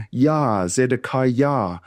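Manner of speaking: "Zedekiah" said slowly with a Y glide, ending "yah"; final YAH. Shown as a demonstration. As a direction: sound the Y in the last syllable of "Zedekiah". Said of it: "it's actually a Y A H".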